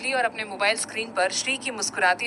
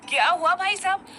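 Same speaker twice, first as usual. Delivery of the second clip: scared; 8 semitones higher than usual. A narrator's reading. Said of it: "अभी को डर लगने लगा".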